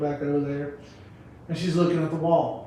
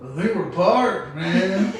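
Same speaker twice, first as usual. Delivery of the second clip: slow mock stoner reply; 2 semitones higher, much slower than usual. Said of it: "He's like".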